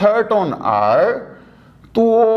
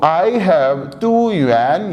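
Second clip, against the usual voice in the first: slow model sentence; much slower than usual. Shown as a demonstration. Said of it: "तो".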